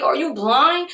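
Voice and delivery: high-pitched, incredulous comeback. Retold or imitated. Seller answering the buyer's accusation, incredulous.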